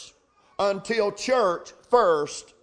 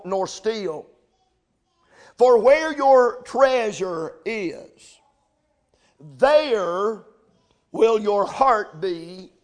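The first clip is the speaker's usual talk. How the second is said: louder, ringing pulpit reading; preaching scripture; 3 dB louder than usual. Acted. Preacher proclaiming the passage to his congregation, ringing. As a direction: proclaim the verses to the church.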